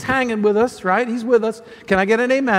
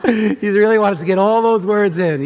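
laughing; 3 dB louder than usual. Real, not acted. Laughs at newlywed.

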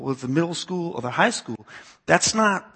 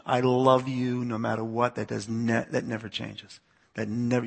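softer, tender fatherly promise; gentle reassurance; 2 semitones lower, 4 dB quieter than usual. Retold or imitated. Father promising son unconditional love, quietly reassuring. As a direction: reassure him quietly and sincerely.

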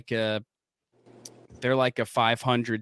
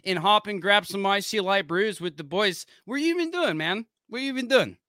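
mock Pittsburgh yinzer; 7 semitones higher than usual. Hosts riffing on Pittsburgh, mock yinzer accent. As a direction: play a proud Pittsburgh local, hammed up.

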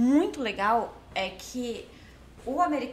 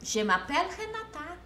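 slow, softer, slightly higher recital; careful French introduction; 4 semitones higher, 6 dB quieter than usual. Retold or imitated. Introducing herself to a French-speaking customer, slow and careful. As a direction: recite it like a phrasebook line.

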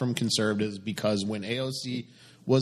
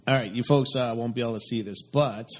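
distant voice from next room; calling out from another room; 2 semitones lower than usual. Real, not acted. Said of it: "He's yelling from the other room".

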